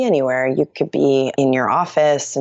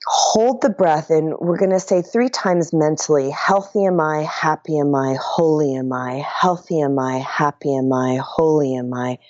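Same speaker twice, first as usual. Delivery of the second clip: guided meditation; 2 semitones higher than usual. Acted. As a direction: lead the breath calmly, chanting the mantra. Leads a breathing meditation.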